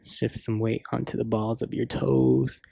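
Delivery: measured yoga cues with long pauses; yoga class guidance. Real, not acted. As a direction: guide them through each breath and pose, unhurried.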